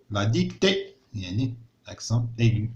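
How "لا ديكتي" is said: لا ديكتي repeated higher, rising at the end. Shown as a demonstration. Teacher repeating a word for pupils, higher and rising. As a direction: say لا ديكتي again, pitched up.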